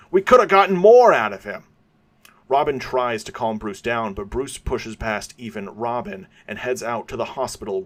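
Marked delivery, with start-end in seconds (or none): 0.1-1.6 much higher, much louder furious yell; yelling back. Acted. Gordon yelling after Batman, much higher and louder. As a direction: hurl it after him as he leaves. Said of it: "yells back".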